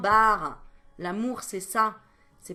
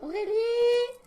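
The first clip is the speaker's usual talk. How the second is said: mock scolding call; 6 dB louder, much slower than usual. Voicing viewers scolding her.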